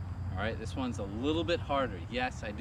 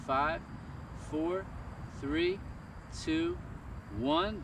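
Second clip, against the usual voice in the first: rising high count; 5 semitones higher, 3 dB quieter, much slower than usual. Real, not acted. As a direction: pitch climbs to a high squeak on the last counts. Counting during toe touches.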